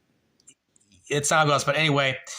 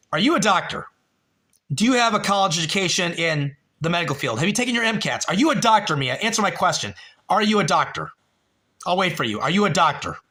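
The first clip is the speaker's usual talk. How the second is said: raised, repeated demand; grilling a chat viewer, higher and insistent; indignant interrogation; 4 semitones higher, faster than usual. Real, not acted. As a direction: keep hammering the question, pitched higher.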